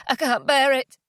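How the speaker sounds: pained, rising desperation; mounting anguish. Acted. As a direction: let the grief break out. Grief building to rage.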